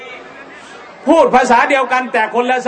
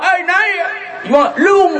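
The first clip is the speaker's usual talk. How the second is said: higher, stretched southern call; southern Thai accent; 7 semitones higher, slower than usual. Retold or imitated. Other train answers with a call, in a southern Thai accent. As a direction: call out across the tracks like a southern passenger. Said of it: "อีกขบวนหนึ่งว่า".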